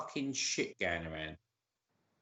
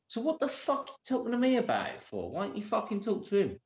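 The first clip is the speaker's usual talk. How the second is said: retold angry retort; 7 semitones higher, faster than usual. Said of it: "so I'll be like".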